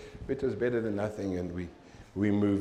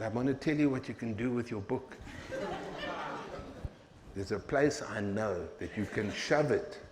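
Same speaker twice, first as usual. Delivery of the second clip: softer, confiding, with a laugh; hushed put-down; 6 dB quieter than usual. Retold or imitated. Daughter's hushed insult to clerk.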